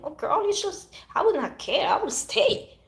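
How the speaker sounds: high, loud imitation of other women; imitated girlfriend advice. Women telling her they would stay, mimicked high and loud.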